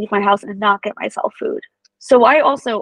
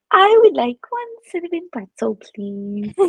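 high, sweet little-voice order for a pretzel; cute sweet request; 4 semitones higher than usual. Retold or imitated. Pregnant wife sweetly ordering a pretzel from her husband, high cute voice.

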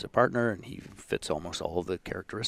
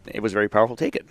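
louder, lightly put-on Polish accent; Polish accent attempt; 7 dB louder, faster than usual. Guest quoting Polish colleague, light Polish accent. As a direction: repeat it with a hint of a Polish accent. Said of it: "Now, that's what he said".

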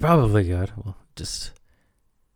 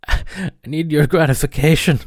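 mock needy; 4 semitones higher, 3 dB louder than usual. Mock begging the audience for approval.

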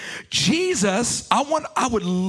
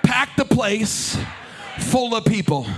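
louder, drawn-out call to the Father. Shown as a demonstration. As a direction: lift it up like a prayer shout. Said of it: "I want you to look up ... and say".

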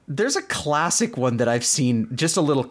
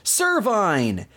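creature cry; 6 semitones higher than usual. Retold or imitated. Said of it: "comes back and says".

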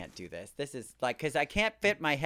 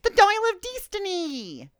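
high, loud excited title; 6 dB louder than usual. Real, not acted. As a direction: shout the title with joy. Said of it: "echoing the title with excitement".

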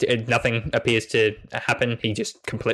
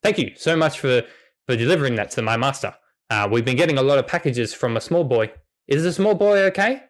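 eager dog; 3 semitones higher, faster than usual. Acted. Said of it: "Grey then turns to you and says".

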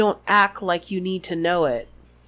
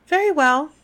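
Umbridge voice; 5 semitones higher, 4 dB louder than usual. Acted. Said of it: "she said".

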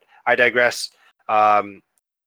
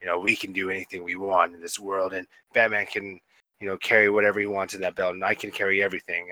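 Batman; 2 semitones lower, 4 dB quieter than usual. Retold or imitated. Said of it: "answered in the Batman voice".

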